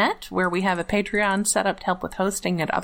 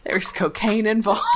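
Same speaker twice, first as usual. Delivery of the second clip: laughing; 3 semitones higher than usual. Real, not acted. Laughing at the show's backstory.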